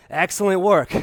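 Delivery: upbeat, pumped-up praise; energetic praise. Real, not acted. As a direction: cheer them on mid-workout. Peak of the jump set.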